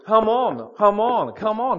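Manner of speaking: punchy, repeated urging; growing insistence. Retold or imitated. Man re-enacts knocking at God's door, insistent urging. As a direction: knock harder with each word. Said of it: "You're knocking, the knock gets louder".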